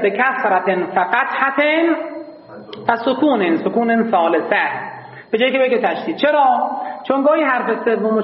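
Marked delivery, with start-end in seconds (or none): 0.0-4.9 slow, measured recitation of the rule; recited verse. Shown as a demonstration. Teacher reciting the grammar verse slowly. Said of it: "بگوید".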